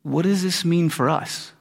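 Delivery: slow, tentative imitated asker; embarrassed question. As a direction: ask it gingerly, a touch softly. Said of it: "probably everybody was too embarrassed to ask".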